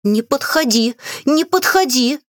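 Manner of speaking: high, hoarse plea to keep away; hoarse warning. A narrator's reading. Witch backing away from chest, hoarse warning. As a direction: raise the pitch on the repeat. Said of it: "сиплым голосом произнесла".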